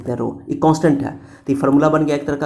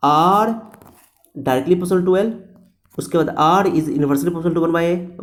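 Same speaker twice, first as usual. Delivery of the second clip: very slow, each word spaced for writing; slow dictation; much slower than usual. Shown as a demonstration. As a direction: read it out slowly for the class to note. Teacher dictating the formula. (धीरे-धीरे लिखवाते हुए)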